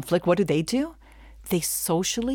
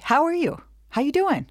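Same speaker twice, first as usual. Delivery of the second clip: breezy casual asker; 9 semitones higher than usual. Retold or imitated. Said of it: "Other types would say".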